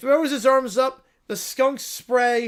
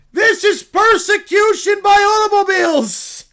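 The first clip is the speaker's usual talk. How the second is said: a cub thrilled by the news; excited little bear; 10 semitones higher, 11 dB louder than usual. Acted. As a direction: squeal it like an overjoyed cub. Bear shouting.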